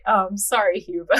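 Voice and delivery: ordinary delivery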